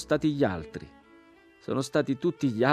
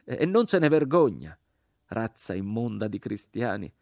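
high, loud, indignant tirade; jeering shout; 8 semitones higher, 7 dB louder than usual. A narrator's reading. Crucified man denounces the Christian's offer, jeering shout. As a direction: taunt them with rising scorn. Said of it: "gridò l'uomo crocifisso".

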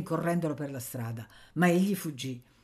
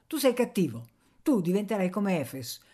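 put-on higher, louder scolding boy; 5 semitones higher, 4 dB louder than usual. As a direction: rebuke his friend. Anania scolds. (rimprovero, più alto e forte)

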